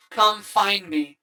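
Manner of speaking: slow, eerie game whisper-like call; lightly voiced creepy game voice. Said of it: "the creepy voice from the video game".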